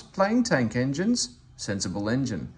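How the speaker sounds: lightly voiced cocky Thomas teasing Gordon; cheeky Thomas. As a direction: poke fun at the big engine.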